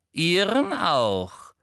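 slow, loud, high command; drawn-out barked command; barked order. A narrator's reading. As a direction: stretch out the order imperiously. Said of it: "bellte sie jemanden an".

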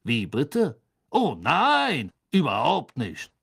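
breezy character voice with swooping denials; jovial ministry official. Acted. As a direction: wave the worry away airily.

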